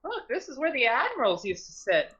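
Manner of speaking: put-on a touch of boyish wonder; Freya. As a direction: marvel at the sight in character. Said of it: "Freya goes over here and says".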